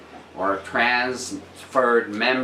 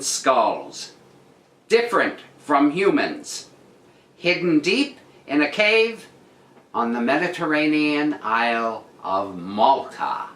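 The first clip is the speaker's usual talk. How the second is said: news read. Acted. Reads the article again.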